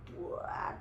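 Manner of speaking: soft mock retch; breathy spewing noise; imitated vomiting. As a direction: let out a pretend puke sound. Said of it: "muntah si Tony".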